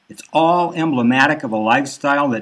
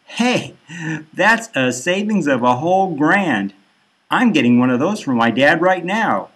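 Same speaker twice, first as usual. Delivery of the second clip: eager chime-in; 3 semitones higher than usual. Acted. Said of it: "The others chime in".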